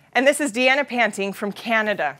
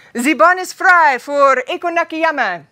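slow, louder German announcer call; 3 semitones higher, 5 dB louder, slower than usual. Retold or imitated. Imitating the German announcer calling the next slider, loud and slow. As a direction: boom it out like a German track announcer. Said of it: "the announcer comes on in German and he says".

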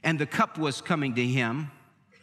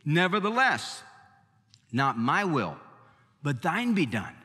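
Jesus praying. Retold or imitated. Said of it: "and he said".

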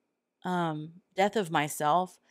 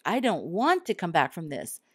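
retold anger; 4 semitones higher than usual. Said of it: "It was like an anger".

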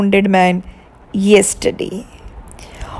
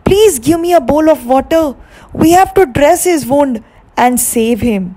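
urgent; 5 semitones higher than usual. Acted. King urgently asks for water.

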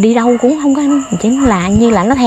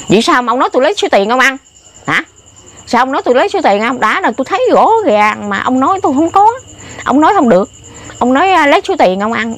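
high, fast indignant challenge; indignant retold confrontation; retold angry confrontation; 4 semitones higher than usual. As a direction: fire the accusation back, quick and high. Confronting the man over accusation.

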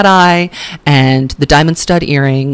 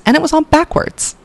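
high, shocked on backwards; shocked reveal; 11 semitones higher than usual. Real, not acted. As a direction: gasp out the reveal. Outraged reveal.

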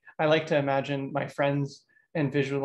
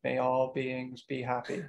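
slow, soft, droning monotone; monotonous caricature; 4 dB quieter, slower than usual. Shown as a demonstration. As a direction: drone it like a stiff, caricatured meditation teacher. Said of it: "in that monotonous voice".

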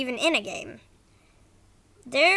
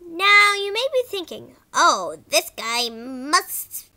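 bad acting; 4 dB louder, slower than usual. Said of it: "Sorry if the voice acting was bad".

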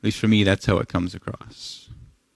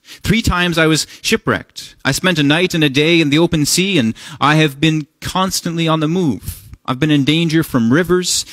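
higher-pitched, insistent reading of a boastful list; acted boasting; 4 semitones higher than usual. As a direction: reel off hardships, lightly boastful and emphatic. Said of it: "show you what this looks like when someone boasts".

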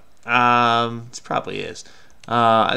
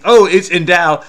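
fooled puzzler; 4 semitones higher, 8 dB louder than usual. Acted. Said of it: "fool someone who's trying to do a crossword".

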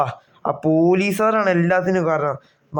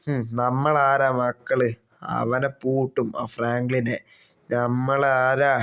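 smug cop brag; 3 semitones lower, slower than usual. Acted. Corrupt cop boasting to partner.

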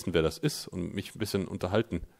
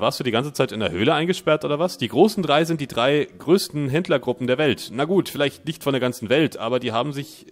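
raised, loud salesman pitch; chummy trader voice; 4 semitones higher, 4 dB louder than usual. Acted. Streamer voices trader Dan welcoming the player, salesman cheer. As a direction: greet the customer like a smooth dealer.

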